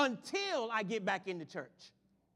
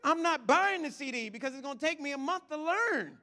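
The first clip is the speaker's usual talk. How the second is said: acted protest; 4 semitones higher, 5 dB louder than usual. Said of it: "And I'm like".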